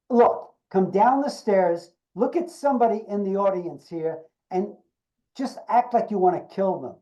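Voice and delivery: imitating an impatient director; hard-driving director. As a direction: spell it out firmly to a clueless actor. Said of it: "she was really so hard on me".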